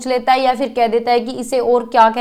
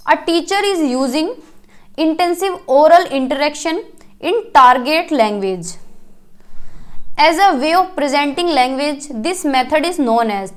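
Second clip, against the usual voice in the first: slow question reading; much slower than usual. Acted. Teacher to students, reading an exam question very slowly. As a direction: read the quiz question slowly, word by word.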